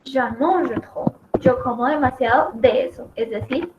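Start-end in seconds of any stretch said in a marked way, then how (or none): 0.0-1.2 careful model phrase. Shown as a demonstration. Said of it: "Entonces voy a decir".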